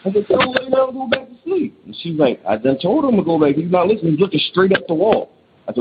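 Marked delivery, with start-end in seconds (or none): 0.3-1.8 much higher-pitched retold protest; mock exasperation, pitched way up; retold exasperated order. Retold baffled order to wife. 2.5-5.3 higher-pitched wife insisting; lightly voiced anxious wife; imitating alarmed wife. Shocked wife reports on son.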